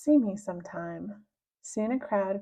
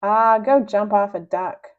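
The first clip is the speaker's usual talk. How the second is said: louder, breezy defiant retort; a hero mocking the villain; 7 dB louder than usual. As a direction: shrug off the threat. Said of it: "said Captain Underpants defiantly".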